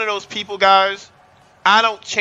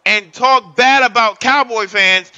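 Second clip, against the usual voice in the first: hype shout; 3 semitones higher, 3 dB louder than usual. Real, not acted. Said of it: "hyping chat, shouting".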